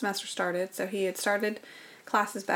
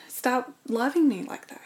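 higher, begging him to stop; a raised, aching plea; pleading; 5 semitones higher than usual. Retold or imitated. Wife begging husband to stop loving her, higher pitched.

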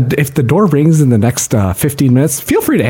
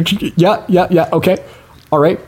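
much higher, chipper voice into a fake phone; pretend phone call; 4 semitones higher than usual. Host fakes a phone call sending Oompa Loompas after Max. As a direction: play it like calling in a favor.

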